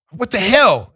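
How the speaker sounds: startled. Retold or imitated. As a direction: jolt awake with it.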